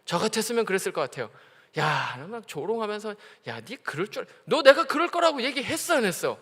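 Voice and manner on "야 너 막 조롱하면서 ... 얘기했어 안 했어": mock scolding. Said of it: "막 야단치고".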